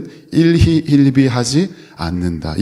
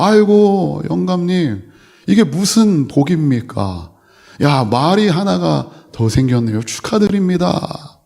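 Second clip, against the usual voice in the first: excited villagers; 6 semitones higher than usual. Acted. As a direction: gush like neighbours bringing good news. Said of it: "마을 사람들이 또 와가지고". (들뜬 목소리로 높게 축하하는 마을 사람들)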